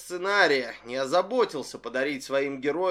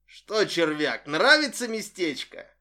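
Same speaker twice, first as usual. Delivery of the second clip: gloating taunt; 2 semitones higher, 4 dB louder than usual. Acted. Yamada gloats at captive.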